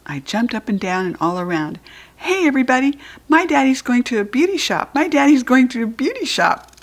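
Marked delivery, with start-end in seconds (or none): 2.1-6.7 higher, louder shout to the room; announcing. A narrator's reading. Judy B shouting the news to everyone. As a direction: tell everybody proudly.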